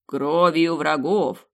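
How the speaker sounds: slow, loud, cheerful answer; eager priest. Acted. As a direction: say it gladly, proud of it. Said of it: "охотно ответил Плас".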